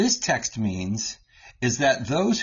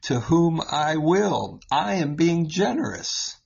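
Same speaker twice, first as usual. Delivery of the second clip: mock-stern parent; 4 semitones higher than usual. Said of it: "I would say to my kids".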